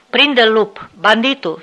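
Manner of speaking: sic the dog on him, loud; shouting at dog. Acted. Officer urging the wolfdog to attack, shouting command. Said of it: "strigă el spre câine".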